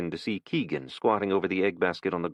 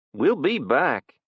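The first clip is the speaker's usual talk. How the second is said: slow, higher, louder parting threat; threatening kid; 8 semitones higher, 5 dB louder, much slower than usual. Acted. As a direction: promise to return.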